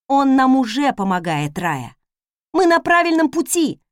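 delighted, rally the frightened maid; glad encouragement. Acted. Mistress cheers up the scared maid, delighted. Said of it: "обрадовалась я".

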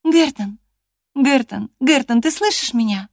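high, insistent calling of his name; insisting girl. Acted. Catherine insisting, calling Hareton to answer her. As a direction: keep pressing him to answer. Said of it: "настаивала она".

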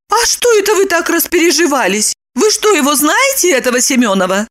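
high, amazed; amazed Lipochka. A narrator's reading. Lipochka surprised by Roman's reaction. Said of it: "Липочка изумилась".

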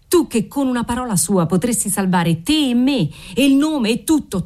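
father piling on guilt, understated anger; mild building reproach. Acted.

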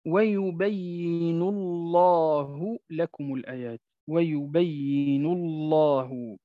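ويبين الله slow with a thick lam in الله; full velarised lam in الله; heavy lam. Shown as a demonstration. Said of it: "مثال آخر". (لام مفخمة بعد ضمة)

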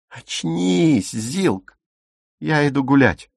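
high, impatient appeal; exasperated urging. A narrator's reading. Dagmar telling Silke to come to her senses, exasperated. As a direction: shake them awake with the words.

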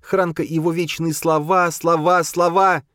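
high, sing-song mockery of слова; mocking. Boya mocking Khranka's words, sing-song and high. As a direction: sing слова слова to mock him. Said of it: "процедила она".

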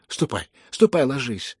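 frightened cry. Acted. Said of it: "испуганно крикнула Лизавета Прокофьевна".

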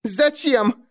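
high, furious snap; angry girl snapping back; spiteful girl's voice. A narrator's reading. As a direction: spit it back in fury. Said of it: "полный злобы девичий голос".

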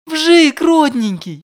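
very high, loud call after him; joyful calling out. Acted. Yulia running after her old friend calling his name, very high and loud. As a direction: shout across the snowy street.

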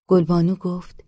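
ordinary delivery

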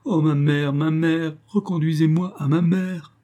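high mock-sobbing call for mother; girl sobbing for her mother; sobbing plea. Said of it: "en sanglotant".

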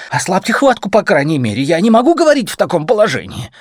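high, loud, squeezed voice of a man in an armlock; strained in pain. A narrator's reading. Pinned man pleads for air under her grip, strained. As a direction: gasp it out, short of air.

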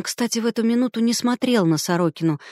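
usual speaking voice

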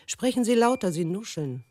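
loud, high demand to speak up; father snapping. Acted. Old father scolding his daughter, loud and high. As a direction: bark it like an irritated judge.

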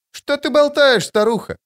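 put-on high, scornful child's voice; little girl sneering at the old woman; dismissive. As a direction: brush the old woman off with contempt. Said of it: "пренебрежительно сказала Алия".

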